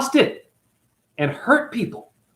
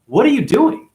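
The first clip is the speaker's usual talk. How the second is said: outraged Sita. Retold or imitated. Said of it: "She's like".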